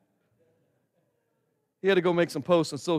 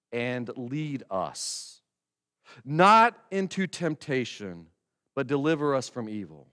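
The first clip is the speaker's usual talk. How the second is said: slow, lead leaned on; emphasized prayer line; 5 semitones lower than usual. Shown as a demonstration. Pastor quoting the final line, slow deliberate stress. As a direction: linger on each word, meaning it. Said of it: "I use this emphasis".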